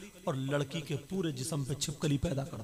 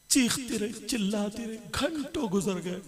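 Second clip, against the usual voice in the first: raised preaching; 7 semitones higher, 5 dB louder than usual. A narrator's reading. Preacher building the horror.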